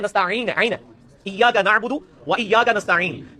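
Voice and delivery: नस्ताईन with a throat ain, slowly; ain in nasta'in. Shown as a demonstration. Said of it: "वो नस्ताईन नहीं है".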